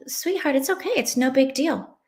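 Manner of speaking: retold soothing, lifting the pitch at first; gentle reassurance. Mother answers her son's bedtime apology, gently reassuring.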